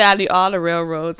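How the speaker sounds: loud, insistent claim; greedy demand. Acted. Monopoly player claiming all the railroads, loud and greedy. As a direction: grab every railroad out loud. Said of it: "she said".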